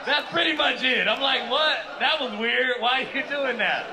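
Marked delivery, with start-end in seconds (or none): 1.5-3.8 retold confusion.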